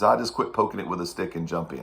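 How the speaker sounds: hint of a Persian accent; light Persian accent retelling; Mohammed's Persian accent. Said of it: "in a very thick Persian accent".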